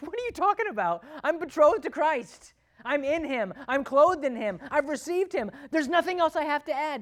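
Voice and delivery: high, loud, scoffing retort; incredulous dismissal. Retold or imitated. Galatian scoffing at false teachers, high and loud. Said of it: "dismiss them with a big hearty laugh".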